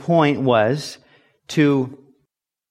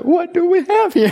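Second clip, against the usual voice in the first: very high, loud mocking shout; mock drill-sergeant yell; 5 dB louder than usual. Drill instructor inspects the new recruit, mock yell. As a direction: imitate an instructor hollering over his find. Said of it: "they just start yelling at you".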